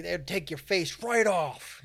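drawn-out, mock menacing tall tale; lightly voiced spooky guide; slow, ominous guide. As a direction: linger on the gore, slow. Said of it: "He's like".

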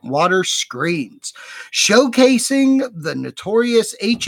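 measured, dramatic promo reading; announcer read. Acted. Host reads haunt show announcement to listeners, announcer style. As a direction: read the show blurb with theatrical emphasis.

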